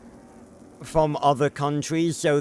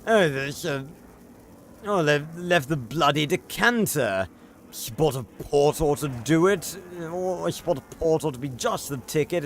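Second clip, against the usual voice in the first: stereotypical British character. Retold or imitated. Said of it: "He's like".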